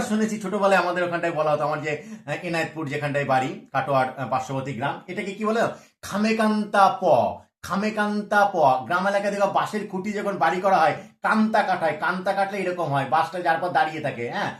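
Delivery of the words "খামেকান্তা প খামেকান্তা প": slow village letter name. Shown as a demonstration. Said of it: "গ্রাম এলাকায় কি বলা হয়".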